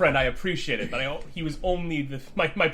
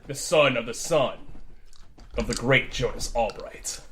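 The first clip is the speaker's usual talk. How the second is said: booming regal voice; 3 semitones lower, slower than usual. Acted. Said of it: "this booming, commanding, regal voice".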